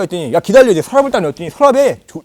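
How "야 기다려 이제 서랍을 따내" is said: loud, high imitation of a fired-up gamer; heated, raised-voice command; acted bossy order. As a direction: order the younger one to wait. Acted order from competitive elder.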